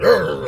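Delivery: growled imitation of a barking dog; vicious dog bark. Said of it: "He viciously barking".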